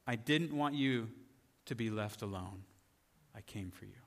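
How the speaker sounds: gently retold reassurance, falling away in volume; voicing Jesus tenderly. Preacher voicing Jesus to the one he died for, tender and hushed. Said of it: "And basically saying that".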